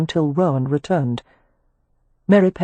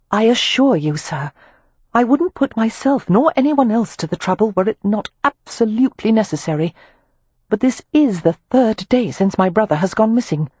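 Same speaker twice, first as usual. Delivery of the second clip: put-on raised, polite young lady; Amelia's voice; 6 semitones higher than usual. Amelia addressing the club manager, formal and raised. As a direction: speak up, formally courteous.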